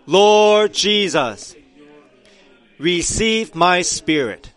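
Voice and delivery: slow, high, loud cry to the Lord; crying out loudly. Retold or imitated. Preacher reenacting Stephen's dying cry, slow loud call. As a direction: call out the first words long and high, then ease. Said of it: "he cried out loudly".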